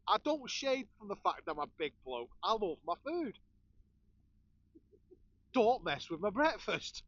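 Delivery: wound up about his food, a touch hammed; flustered rant. Real, not acted. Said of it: "Getting all flustered here".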